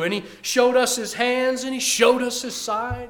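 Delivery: impassioned witness pleading before a judge; Thomas testifying. Acted. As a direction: testify as Thomas, rising in passion. Preacher speaks as Thomas before the judge.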